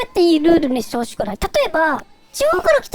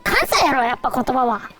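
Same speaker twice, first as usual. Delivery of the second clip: Kansai dialect; 5 semitones lower than usual. Pretend. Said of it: "関西弁好きだから".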